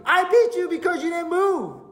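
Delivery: high, indignant acted retort; scolding Balaam. Balaam answers his talking donkey, scolding. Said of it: "He started talking to the donkey".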